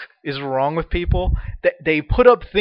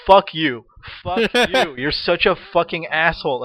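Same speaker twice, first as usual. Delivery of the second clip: angry cursing; 3 semitones higher, 4 dB louder, slower than usual. Retold or imitated. Cursing at snapping guy.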